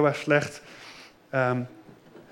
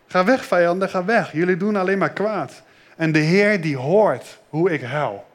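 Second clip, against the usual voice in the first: psalm reading. Acted. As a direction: read it like a sad prayer. Reads psalm to children.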